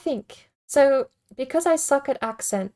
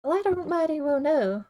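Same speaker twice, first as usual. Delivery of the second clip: attempted western twang; 5 semitones higher than usual. Shown as a demonstration. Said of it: "I'm getting into it".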